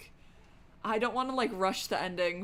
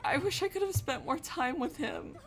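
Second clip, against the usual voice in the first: lightly voiced daughter, higher, close to tears; tearful daughter; 5 semitones higher than usual. Grieving daughter tells her dead father she's sorry, tearfully. Reads Bookworm's tearful apology.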